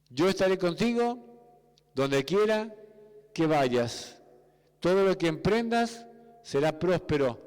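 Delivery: fervent preacher's exhortation; preaching. Acted. Pastor urges the congregation to step out in faith, fervent preaching.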